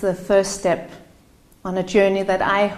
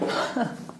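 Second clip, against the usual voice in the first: soft, unvoiced laugh through tears; a shaky little laugh fighting back tears; breathy tearful laugh; 3 semitones higher, 8 dB quieter than usual. Real, not acted. Speaker breaking off her meditation welcome, a soft tearful laugh. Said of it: "Sorry, I'm getting so emotional".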